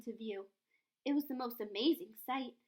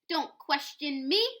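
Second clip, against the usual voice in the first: slow, heavy, commanding bark; barked order; 4 dB louder, slower than usual. Acted. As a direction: lay down the law, word by word. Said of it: "barked Mister Payne".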